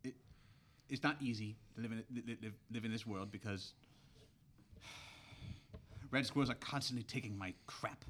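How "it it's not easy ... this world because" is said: halting, repeating stammer. Acted. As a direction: trip over the first sound. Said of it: "with a bit of a stammer".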